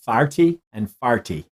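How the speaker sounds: thirty and forty said as Farty and farty; stage Irish Farty for thirty, farty for forty; Irish accent. Shown as a demonstration. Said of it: "that's how you say it".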